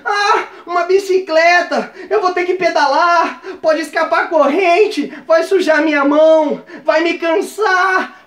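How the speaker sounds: high, slow, hammed-up whine; whiny complaining. Ungrateful man complaining about the gifted bicycle, exaggerated whining. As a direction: drag every phrase out like a sulky complainer. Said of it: "o mimimi reclamando".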